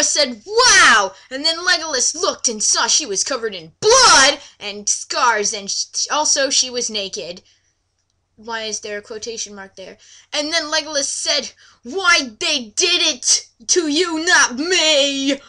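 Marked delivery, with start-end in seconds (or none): 0.4-1.1 mock wow. Laura amazed by door. 11.8-15.4 mock lament. Legolas laments.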